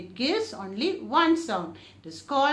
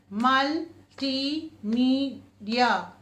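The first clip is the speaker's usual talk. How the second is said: very slow, four clear syllables; much slower than usual. Shown as a demonstration. Teacher splitting the word for the class, slowly. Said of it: "which has four syllables".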